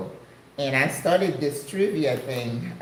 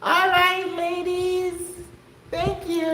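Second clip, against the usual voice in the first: much higher, bright call to the ladies; excited greeting; 14 semitones higher, slower than usual. Real, not acted. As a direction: greet them with a lift. Greeting her audience.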